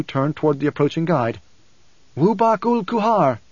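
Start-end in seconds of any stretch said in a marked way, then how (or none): 2.2-3.4 high, drawn-out hail; calling out. A narrator's reading. Leto hails the approaching youth, high and slow. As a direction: call slowly to someone approaching, pitched up. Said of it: "Leto called to the youth".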